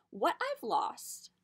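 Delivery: slow hushed whisper. A narrator's reading. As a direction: let it out as a secret. Dramatic reveal in story.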